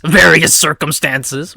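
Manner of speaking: loud, drawn-out mock echo; slow, emphatic retort in imitation. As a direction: throw the phrase back slowly and loudly. Amy mockingly echoes Eggman's phrase.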